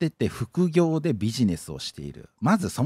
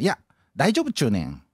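hammed-up fake Kansai dialect. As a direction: play a would-be Osaka local in mock Kansai dialect. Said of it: "俺よくエセ関西弁って言われる".

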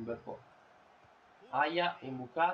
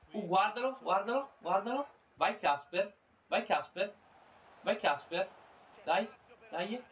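higher pitched urging on; excited cheering; 6 semitones higher than usual. Real, not acted. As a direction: cheer him toward goal. Urging player on during run.

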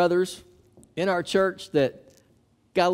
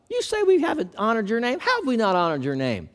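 arguing with God; 4 semitones higher than usual. Retold or imitated. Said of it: "do you see the tone of their voice there?".

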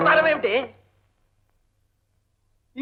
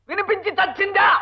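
a shouted, higher snap of impatience; exasperated shout; 4 semitones higher than usual. Acted. Fed-up husband yelling at his wife, can you hear. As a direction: yell it out, fed up.

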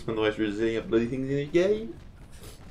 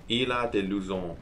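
mock Italian French accent. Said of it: "I'm saying it in an Italian French accent".

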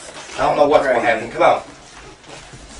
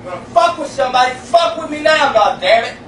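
from another room; 6 semitones higher than usual. Real, not acted. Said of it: "From the other room, you can hear him challenging the entity".

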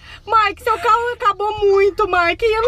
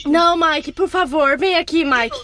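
trembling whisper; 5 semitones lower than usual. Pretend. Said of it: "Mike, eu tô tremendo".

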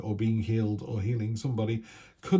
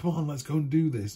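mock enthusiasm; 6 semitones higher than usual. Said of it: "that enthusiasm where you go".

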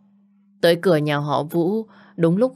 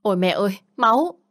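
a panicked cry that shoots much higher on "máu"; frightened scream; 4 semitones higher than usual. Acted. Lan crying out in fright at her husband's blood. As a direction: gasp it out in shock, voice leaping up. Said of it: "sợ hãi hét lớn".

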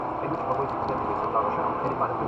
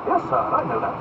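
haughty duke; 11 semitones higher, 7 dB louder than usual. Acted. Buckingham voiced high.

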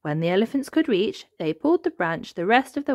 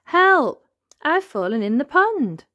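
high cry easing into a raised call; calling for help; 8 semitones higher, 6 dB louder than usual. A narrator's reading. Hidden voice calls from the pond, calling for help. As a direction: yell out the mishap. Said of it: "called the voice".

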